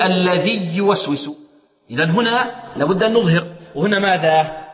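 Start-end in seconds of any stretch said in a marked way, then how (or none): 0.0-1.5 الذي يوسوس with the ي doubled across the words; fuse الذي into يوسوس on a pressed y; slow faulty demo, alladhiy-yuwaswisu; merging error. Shown as a demonstration. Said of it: "فيقول".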